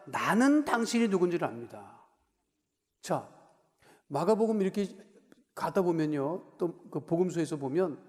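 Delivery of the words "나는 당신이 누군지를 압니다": mock demon cry. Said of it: "소리 질러서".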